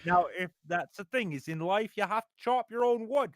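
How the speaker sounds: lightly voiced stern lecturer; a hint of a stern Canadian professor; Jordan Peterson impression. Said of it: "you do a Jordan Peterson impression".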